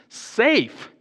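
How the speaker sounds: a high incredulous safe; Mister Beaver's scoff. Retold or imitated. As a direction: toss the word back in disbelief. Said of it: "said Mister Beaver".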